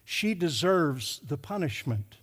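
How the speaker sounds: slow, weighty stress through "She deserves the punishment"; measured, deliberate verdict to make a point; pointed emphasis. Retold or imitated. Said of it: "I'm trying to get a point across".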